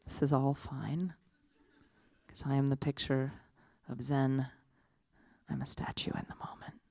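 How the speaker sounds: hushed, measured inner monologue; calm, unhurried, with reverent pauses; serene living statue. Acted. Living statue silently blessing a stranger, serene and hushed.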